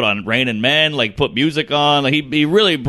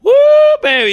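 mock flirty woo; 7 dB louder, faster than usual. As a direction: ham up the delight. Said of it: "he's like".

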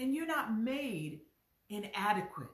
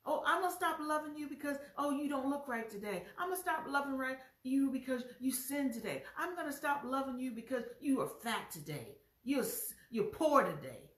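quick, lightly sassy voice of a love that quits; hammed-up fickle affection, brushing you off; mock fickle lover; 3 semitones higher than usual. Preacher mocking a love that quits on sinners: quick sassy put-down.

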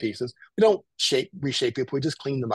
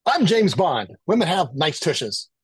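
lightly acted James Bond, higher and louder at first; a hint of mock-bold announcement; password declaration; 3 semitones higher, 4 dB louder, slower than usual. Client giving a secret password over the phone, lightly acted declaration.

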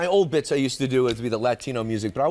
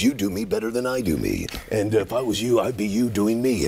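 trailer announcer voice; 5 semitones lower than usual. Retold or imitated. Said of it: "he goes".

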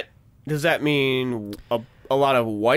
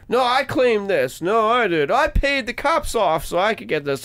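raised, squabbling voice; arguing tow truck guy; 6 semitones higher than usual. Retold or imitated. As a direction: bicker over the wreck. Tow truck guys fighting.

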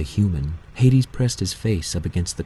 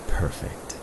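whispered satisfaction; 3 semitones lower, 6 dB quieter than usual. A narrator's reading. Hades senses his prey.

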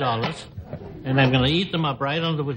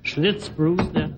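ad announcer; 5 semitones higher, slower than usual. Shown as a demonstration. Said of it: "You can do this".

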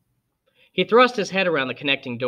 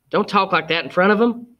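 Aunt Alexandra voice; 6 semitones higher, 3 dB louder than usual. A narrator's reading. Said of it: "and then she said".

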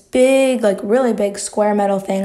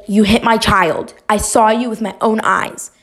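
slightly louder, emphatic mock accusation; mildly imitated yelling; 4 dB louder than usual. Imitating mom yelling at kids on the playground, mild mock yell. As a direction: retell an accusing yell at half strength. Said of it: "She's, like, yelling at us".

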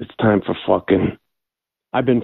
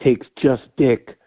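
angry voicemail; 3 semitones higher than usual. Real, not acted. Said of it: "He starts yelling at him".

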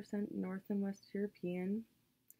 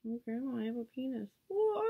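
mock shocked grandma; 5 semitones higher, 5 dB louder than usual.

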